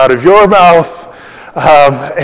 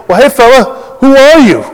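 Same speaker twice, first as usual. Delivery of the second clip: much higher pitched, mock-puzzled demand; insistent questioning; 8 semitones higher than usual. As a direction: play the questioners pressing him, pitch jumping up. Retold questioners press John for answer.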